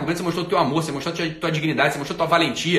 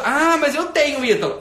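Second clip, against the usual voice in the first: mock protest; 7 semitones higher than usual. Follower objecting to the host's scolding, mock protest. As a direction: imitate a defensive follower butting in.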